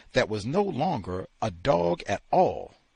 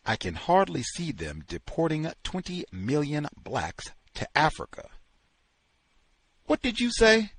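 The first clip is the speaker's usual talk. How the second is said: plain reading voice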